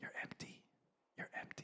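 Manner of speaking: very quiet, hushed whisper. Acting out the small inner voice felt on empty nights: whispering an inner voice. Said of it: "And I'm whispering 'cause that's what it feels like".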